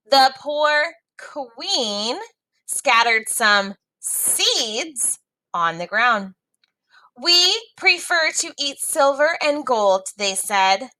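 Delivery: put-on lively read-aloud for young learners; story reading. A narrator's reading. Teacher reading a story to students, lively read-aloud.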